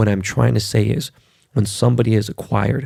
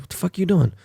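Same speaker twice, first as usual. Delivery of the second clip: startled outburst; 8 semitones higher, faster than usual. Retold or imitated. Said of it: "I was like".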